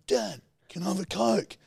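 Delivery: high, put-on kid voice; pestering child. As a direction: imitate a child nagging for attention. Child asks dad again.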